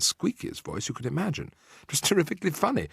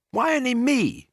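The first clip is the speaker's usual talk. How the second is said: high, loud whine; aggrieved high-pitched cry; indignant protest; 14 semitones higher, 5 dB louder than usual. A narrator's reading. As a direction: object as if unfairly singled out. Bruno protests at his problem.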